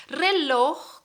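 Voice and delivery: "Reloj" with the final j sounded as a Spanish throat fricative; careful model pronunciation. Shown as a demonstration. Teacher warning learners how "Reloj" is said, careful model pronunciation with audible final j. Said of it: "así se dice esta palabra".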